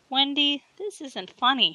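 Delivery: whining. A narrator's reading. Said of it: "he whined".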